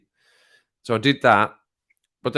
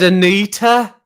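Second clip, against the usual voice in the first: much higher, loud repeated call; insistent call; 8 semitones higher, 10 dB louder, slower than usual. Retold or imitated. Repeating the name to an unresponsive assistant, insistent loud call. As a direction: call out sharply to be heard.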